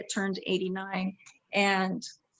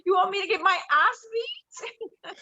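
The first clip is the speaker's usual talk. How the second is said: English accent climbing higher in mock protest; 7 semitones higher than usual. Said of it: "especially talking like this".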